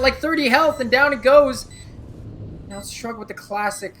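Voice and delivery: esports caster. Real, not acted. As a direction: call the clutch as it heats up. Caster calling a tense clutch.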